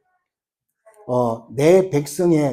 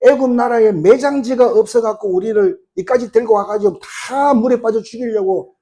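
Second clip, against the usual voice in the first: higher-pitched acted grumbling; resentful complaint; 4 semitones higher than usual. Israelites blaming Moses at the sea, resentful complaint. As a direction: lightly play an aggrieved crowd accusing its leader. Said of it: "그래서 막 원망하고 막 불평합니다".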